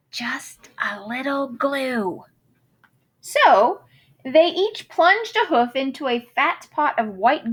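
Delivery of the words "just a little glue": breathy slow whisper, softer; whispered secret. Acted. Miz Moose confiding her hair trick in a whisper. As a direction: let her share a secret in a hush. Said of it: "winked and then whispered".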